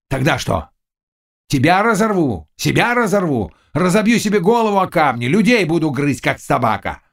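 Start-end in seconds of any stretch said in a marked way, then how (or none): 1.5-7.0 high-pitched desperate threats; frenzied rage. A narrator's reading. Cossack threatening the witch and himself, high frantic rage. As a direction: let the pitch climb in a frenzy. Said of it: "крикнул в бешенстве казак".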